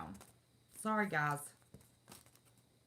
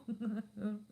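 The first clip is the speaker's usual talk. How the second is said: amused little laugh; chuckle; 4 semitones higher than usual. Real, not acted. Streamer amused by own moon denial, chuckle.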